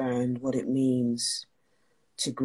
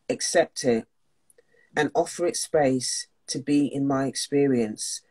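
earnest, slightly raised reading voice; reading aloud; 3 dB louder than usual. Acted. Host reading a Buddhist priest's passage on mourning, earnest.

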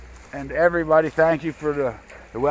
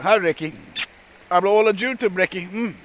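playful dog talk; 8 semitones higher, 6 dB louder than usual. Real, not acted. Greeting Ricky the guard dog in a high, playful voice.

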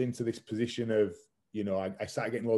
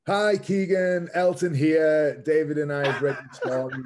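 slow, much higher and louder, playful and laughing; impression of a famous singer; 6 semitones higher, 8 dB louder than usual. Retelling a famous singer's surprise call, slow, high and loud. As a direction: ham up a delighted, gushing celebrity calling. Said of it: "and then it went".

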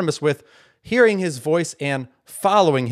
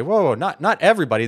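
mock objection; 3 semitones higher, faster than usual. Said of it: "You say".

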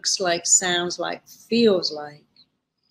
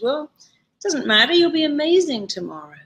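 much higher, bright, quick and upbeat; cheerleader cheer; 9 semitones higher, 3 dB louder than usual. Retold or imitated. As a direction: cheer her on like a pep squad. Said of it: "a cheerleader cheers and goes".

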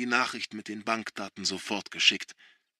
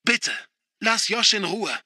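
much higher, louder begging; pleading; 9 semitones higher, 5 dB louder than usual. A narrator's reading. Sister pleading with father for Josh, desperate. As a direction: plead for your brother.

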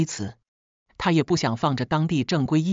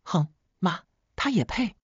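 scornful little huff, then a sharp high jab; cold sneer; 3 semitones higher than usual. A narrator's reading. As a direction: sneer at the very idea of calling her mom. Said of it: "我冷笑一声". (冷笑着，轻蔑地反问)

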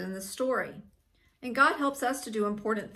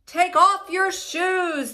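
loud, high, slow command; thundering voice; 7 semitones higher, 6 dB louder, slower than usual. A narrator's reading. God ordering Moses at the bush, thundering. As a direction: thunder each word out slowly. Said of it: "the voice thundered".

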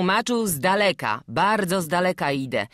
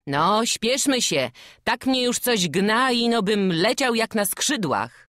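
higher, eager, hurrying voice; eager to get home; 7 semitones higher than usual. Acted. Traveler hurrying the boy toward home, eager. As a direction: urge the boy on, longing for home.

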